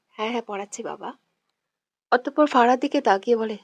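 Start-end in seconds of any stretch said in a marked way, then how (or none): 0.1-1.1 nervous fake laugh. A narrator's reading. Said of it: "মেকি হেসে বলল".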